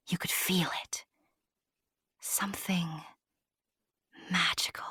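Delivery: hushed aside. A narrator's reading. Narrator whispering directly to the dear listener.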